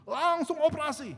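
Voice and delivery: slow, high, loud mock shout; shouted order. Doctor ordering immediate surgery on his sister, mock shouted order. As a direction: belt out the doctor's verdict, stretched out.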